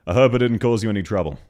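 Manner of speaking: fast, broad Australian read with "hope" as "hə˞p"; Australian accent. Shown as a demonstration. Streamer showing how an Australian would really say the line, broad Australian. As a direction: say it the way a real Aussie would. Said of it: "The way an Aussie would pronounce it".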